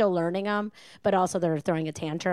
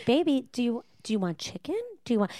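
doting cooing; 4 semitones higher than usual. Retold or imitated. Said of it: "he would be like".

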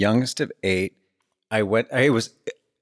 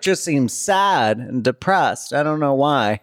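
mock concerned relative; 6 semitones higher than usual. Voices relatives puzzling over him.

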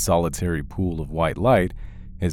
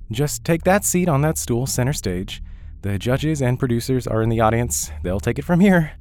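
higher, brisk stage manager; 7 semitones higher than usual. Acted. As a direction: hurry him onstage like a busy stagehand. Stage manager directs the contestant.

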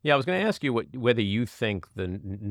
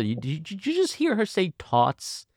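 can you believe this, aghast; incredulous question; 12 semitones higher than usual. Retold or imitated. Grandfather asking the girl's mother if she heard that, aghast. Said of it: "I said to her mother".

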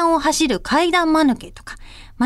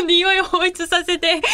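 laughing burst; 4 semitones higher than usual. Real, not acted. Laughs at absurd idea.

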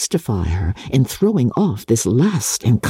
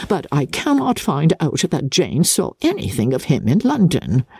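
lightly voiced fretful mother, quick and chattering; a hint of a gossiping matron rattling on; fussy Mrs Bennet. Mother grumbling to Lizzie about Jane, lightly voiced fussy chatter.

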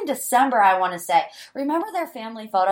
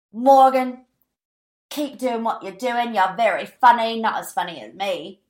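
lightly imitated British man's accent; a hint of badly mimicked British accent; P K impression. Podcaster quoting P K's video message to her, lightly mimicked British accent. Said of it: "Listen to that. It's horrible".

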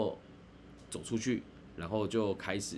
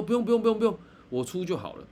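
higher and louder, waving off the offer; insistent refusal; 9 semitones higher, 4 dB louder, faster than usual. Retold or imitated. Host waves off his guest's offer to pay, insistent and loud. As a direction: insist loudly that he pays.

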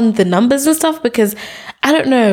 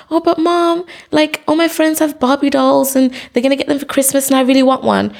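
put-on a touch of childish pleading, higher at first; lightly voiced pleading child; 4 semitones higher than usual. Child asking mom for a Barbie, mock pleading. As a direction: lightly play a wheedling kid.

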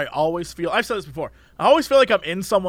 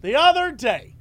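put-on chatty old lady voice; slower than usual. Imitating chatty customer.

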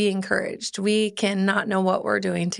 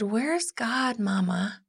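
lightly voiced small child, softer; a hint of a child's voice; little boy; 5 dB quieter, slower than usual. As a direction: ask softly like a curious little kid. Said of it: "When Aiden was little".

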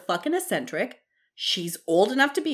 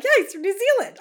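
imitating a friend; 13 semitones higher, 5 dB louder than usual. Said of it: "They're like".

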